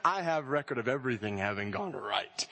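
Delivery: high, ringing declaration; impassioned preaching. Acted. Preacher declaring God's verdict to the church, ringing and high. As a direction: proclaim it with full conviction.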